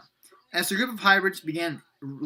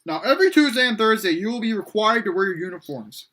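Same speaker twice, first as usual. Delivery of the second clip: loud, raised classroom announcement; announcing to class; 5 semitones higher, 6 dB louder than usual. A narrator's reading. Major Rio tells the class the uniform rule, announcing loudly. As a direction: project the rule to everyone.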